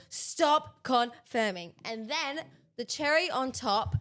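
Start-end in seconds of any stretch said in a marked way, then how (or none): 0.1-1.7 slow, louder impatient "Stop confirming"; mocking an annoyed driver on the radio; mock exasperated order. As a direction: drag it out like a fed-up driver. Lewis mocked, slow and loud.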